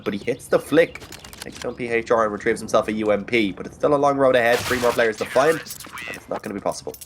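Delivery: live play-by-play commentary; esports caster. Acted. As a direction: call the round as it happens.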